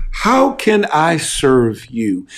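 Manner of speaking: slow, tender question; slow caring offer; gentle tone. Shown as a demonstration. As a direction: ask it slowly and kindly. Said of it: "you change the tone".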